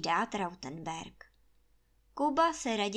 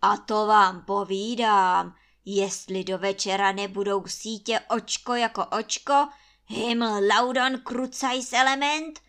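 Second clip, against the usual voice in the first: threatening roar; 10 dB louder than usual. A narrator's reading. Trautenberg threatening gamekeeper, roaring in fury. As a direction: roar it like a tyrant lord. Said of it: "hrozí Trautenberg".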